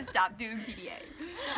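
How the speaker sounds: laughing. Real, not acted. Laughing while scolding.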